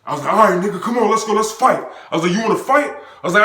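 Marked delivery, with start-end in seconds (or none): 0.3-1.8 loud, high goading; re-enacted heated challenge; pissed off. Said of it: "now I'm pissed". 2.3-2.9 loud, high goading; re-enacted heated challenge; pissed off. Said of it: "now I'm pissed".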